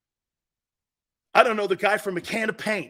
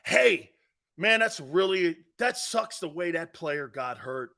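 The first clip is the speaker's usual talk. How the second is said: lowered, mock-mournful sigh of a line; mock sympathy; 3 semitones lower than usual. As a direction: ham up the fake sympathy. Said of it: "don't you always hear that".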